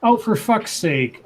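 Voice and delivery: drawn-out, fed-up groan of the words; exasperated. Real, not acted. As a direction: let out weary disbelief. Fed up with a withheld claim.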